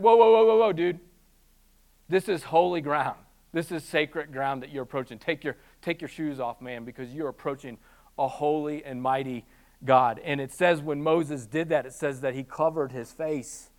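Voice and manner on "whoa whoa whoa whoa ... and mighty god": casual God. Retold or imitated. God voiced as casual dude.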